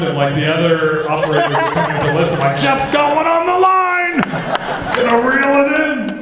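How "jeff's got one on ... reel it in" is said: high, loud hollering to the whole office; acted thrilled yell, calling coworkers over; excited shout. Operators crowding round, acted.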